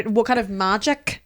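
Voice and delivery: lightly put-on Northern Irish accent; a hint of Northern Irish. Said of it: "That was Northern Irish, sorry".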